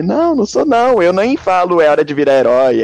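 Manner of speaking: high, loud cartoon hero voice; Ben 10 voice. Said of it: "Aí fez a vozinha, né?".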